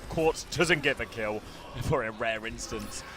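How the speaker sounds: esports caster. Real, not acted. Live play-by-play casting.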